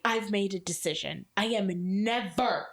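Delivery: imitating a friend's posh accent, building in emphasis; mock posh, solemn ultimatum. Rich friend announces his decision to the group, imitated posh accent. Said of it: "he had this very, like, posh, like, accent".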